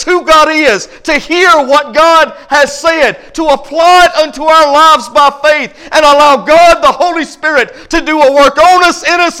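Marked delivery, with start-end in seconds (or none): 3.3-9.4 rising, shouted preaching. Acted. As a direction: lift it into a fiery shout.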